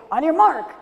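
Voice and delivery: high, loud starting call; race starter call. Acted. Rabbit starts the race to Turtle, high loud call.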